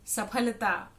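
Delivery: aspirated ph in saphalta, no f; correct "saphalta". Shown as a demonstration. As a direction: say saphalta carefully with a puffed p. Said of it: "जो सही उच्चारण है इन शब्दों का".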